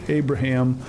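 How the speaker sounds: Abraham said as AY-bruh-ham; mispronounced name. Retold or imitated. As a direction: say Abraham with a long A up front. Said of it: "I think is what he said".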